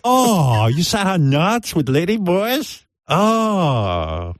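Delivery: put-on high, drawn-out girl voice; mock ladyboy. Ladyboy reacts to friend's mishap, high mock dismay.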